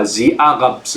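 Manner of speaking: put-on slow Israeli accent, guttural r in Arabs. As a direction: mimic an Israeli politician saying Arabs. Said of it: "in the Israeli accent".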